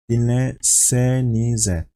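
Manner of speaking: Dinlesenize drawn out slowly, each syllable spaced; slow and deliberate. Shown as a demonstration. A teacher naming the plural form, slowly. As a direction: spell out Dinlesenize slowly to the class. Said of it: "teacher is talking to the group".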